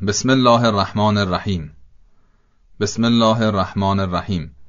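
الرحمن and الرحیم with a short single R; single light R in الرحمن and الرحیم; undoubled R. Shown as a demonstration. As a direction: drop the doubling on R in الرحمن الرحیم. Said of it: "تشدید ر از بین رفته".

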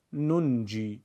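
ننجی said "nun-ji", the second nun sounded; ننجی spoken with an audible middle n; both nuns pronounced. Shown as a demonstration.

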